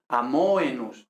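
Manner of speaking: "amoenus" as a-MO-e-nus, o drawn out before e; stressed MO. Shown as a demonstration. Teacher shows same tendency to students, MO over-stressed. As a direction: lean on MO in "amoenus". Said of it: "Y aquí lo mismo".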